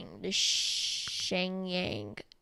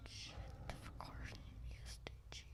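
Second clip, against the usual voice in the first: breathy stage whisper about the jet; playful whispered aside; 12 dB quieter than usual. Pretend. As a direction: hush it like a secret.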